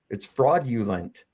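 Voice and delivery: slow "fraudulent", frawd-yoo-lent; sounded out. Shown as a demonstration. Speaker telling friend to sound it out, slow demonstration. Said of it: "sound it out".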